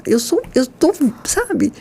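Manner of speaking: usual speaking voice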